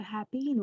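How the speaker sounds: 'happen' ending in 'een'; long E mispronunciation. Shown as a demonstration. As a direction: say 'happen' as 'hap-EEN'. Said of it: "or hapeen".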